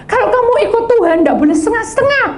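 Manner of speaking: high, fast insistence; urgent warning. Acted. Preacher quoting Revelation to the congregation, high and fast. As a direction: press the warning hard. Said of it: "Wahyu berkata".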